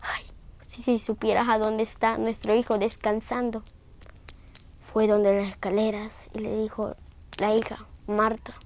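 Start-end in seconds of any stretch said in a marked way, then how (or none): 0.0-3.6 hushed, breathy grief of a father; soft whispered sorrow; grieving whisper. Acted. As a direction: whisper it as if the child sleeps nearby. Grieving father speaks of dead son.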